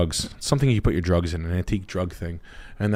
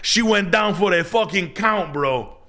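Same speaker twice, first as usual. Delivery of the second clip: imitating buddy; 11 semitones higher than usual. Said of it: "He's like".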